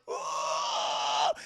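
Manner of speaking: loud drawn-out yell; imitated scream. Retelling the film to chat, imitated scream. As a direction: mimic a long movie scream.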